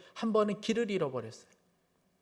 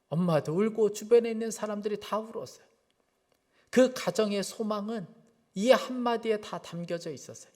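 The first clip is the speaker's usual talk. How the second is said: usual speaking voice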